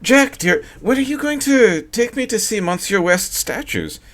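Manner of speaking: the wife changes the subject, brightly. A narrator's reading. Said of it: "she spoke up brightly".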